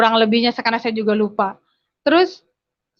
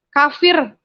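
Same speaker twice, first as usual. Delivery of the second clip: retold angry yell; 5 semitones higher, 4 dB louder than usual. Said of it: "Bapak saya teriak".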